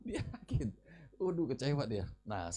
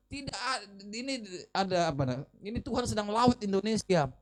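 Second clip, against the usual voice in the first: quoting friend's belief; 6 semitones higher than usual. Retold or imitated. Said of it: "Karena dia bilang".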